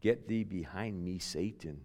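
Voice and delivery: soft, low rebuke; quiet stern rebuke. Acted. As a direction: say it low and firm. Jesus rebukes Peter.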